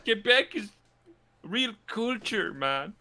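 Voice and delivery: hammed-up French-Canadian accent, high and indignant; mock Quebec accent. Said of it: "worst accent slash impression".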